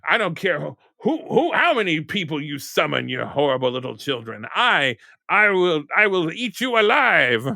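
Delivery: hammed-up Krampus threat to the children; hammed-up villain threat. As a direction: put on a show to scare the kids. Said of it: "here we go".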